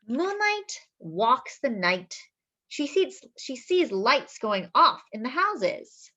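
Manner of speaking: slowing gently as she reads; storybook reading. Acted. Reading to children, slowing and gentle. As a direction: let the line slow down like a cat walking.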